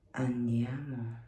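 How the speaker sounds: soft whispered urging; whispering. Real, not acted. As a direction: breathe it out quietly.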